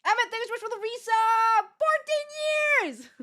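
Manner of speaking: high, loud, excited thanks; thanking Emmett for a resub, bright and loud. Real, not acted. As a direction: cheer the long-time subscriber.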